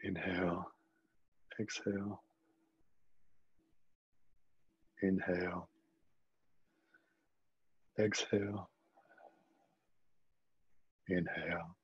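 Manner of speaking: unhurried guiding voice with long pauses; calm body-scan guidance, leaving space between phrases; guided meditation. Acted. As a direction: lead listeners gently through it, phrase by phrase.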